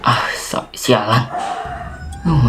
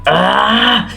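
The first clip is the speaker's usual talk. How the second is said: acted pained cry; 9 semitones higher, 3 dB louder than usual. Sudden dizzy attack in roleplay.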